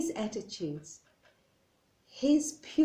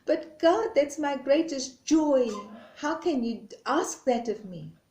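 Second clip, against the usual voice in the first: higher, louder plea of a wounded reed; hurt pleading reed; 4 semitones higher, 4 dB louder than usual. Acted. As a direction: protest to God with hurt love. Reed begs God.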